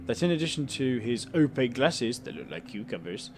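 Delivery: steady storyteller read of the scene; calm even narration voice; story narration. A narrator's reading. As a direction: narrate the room like a novel. Reads game narration aloud.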